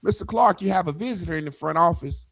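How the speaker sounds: a hint of an office announcement; office caller. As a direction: imitate a front-office call, lightly. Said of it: "I got a call".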